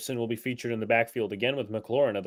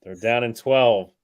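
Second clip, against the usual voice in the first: play-by-play; 3 semitones higher, 9 dB louder than usual. Acted. Play-by-play over the stream.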